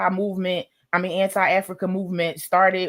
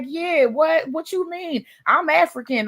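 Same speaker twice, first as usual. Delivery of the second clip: excited claim; 9 semitones higher than usual. Retold or imitated. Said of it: "I'm like".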